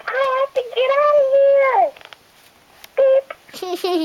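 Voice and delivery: high, loud, fast panic; panicked. Acted. Trapped baby bird wanting out, high fast panic. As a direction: blurt it out in a frantic rush.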